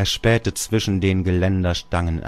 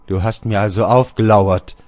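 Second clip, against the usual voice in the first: 1 exclaiming; 3 semitones higher, 7 dB louder than usual. Acted. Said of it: "rief Georg".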